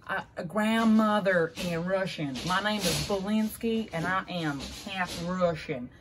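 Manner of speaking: put-on slow, lightly done Russian accent; a hint of a Russian accent. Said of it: "that's my Russian accent".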